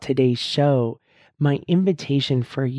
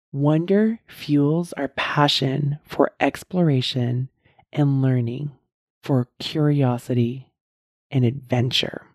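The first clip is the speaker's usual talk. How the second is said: slow reading; slower than usual. Shown as a demonstration. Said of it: "I'm gonna say that again".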